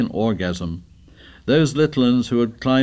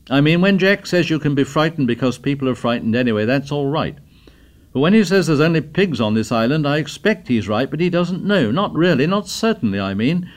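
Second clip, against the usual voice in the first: lightly voiced earnest boy, higher and louder; a boy arguing his point at assembly, pitched up; a hint of an excited schoolboy; eager boy; 5 semitones higher, 3 dB louder than usual.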